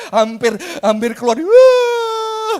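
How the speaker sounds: preacher hamming up the suspense; dramatic rising exclaim. Acted. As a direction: build the tension to a burst. Dramatic build to cry.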